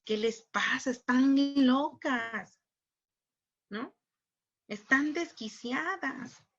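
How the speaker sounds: slow, scandalised businessman complaining about broken doors; mock indignant businessman. Speaker mocks a businessman's complaint about protests, slow and scandalised. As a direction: drag out the outrage of a shopkeeper whose door was smashed.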